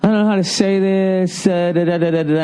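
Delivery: mock hesitant, high and hemming; hesitant dithering. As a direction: imitate a nervous guy stalling before bad news. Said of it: "Don't sit there and be like".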